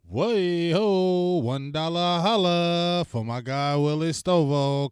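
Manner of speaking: loud, high call-out, stretched slow on the name; hype donation shoutout. Real, not acted. Thanking a donor live on stream, loud slow hype call.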